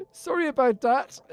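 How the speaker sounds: put-on high, loud Irish accent through laughter. Streamer amused by own joke name, laughing Irish accent. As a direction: squeal the catchphrase in Irish, cracking up. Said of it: "saying it in a very Irish accent".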